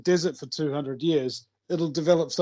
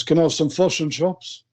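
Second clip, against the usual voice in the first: New Zealand vowels, "chops" for chips; Kiwi accent; 3 semitones higher, 4 dB louder than usual. Retold or imitated. Kiwi customer ordering at the counter, New Zealand accent. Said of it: "that's not how it's pronounced".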